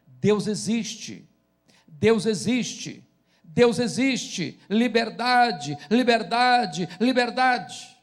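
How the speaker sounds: drawn-out proclamation, slow and building; retold street cry. Young woman crying out through the streets of Timisoara, retold as a measured, building cry. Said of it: "saiu gritando a plenos pulmões".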